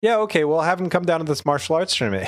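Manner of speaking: lightly voiced dismissive King Kai; playing King Kai brushing off South Kai.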